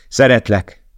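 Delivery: loud, high anguished cry; desperate shout of love; shouting I love you. A narrator's reading. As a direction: fling it after her. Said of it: "kiáltotta".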